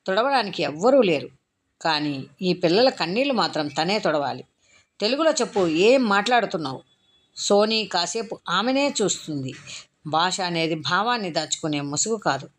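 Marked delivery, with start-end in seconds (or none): 5.0-6.8 impatient demand. Acted. Impatient warden demands Telugu.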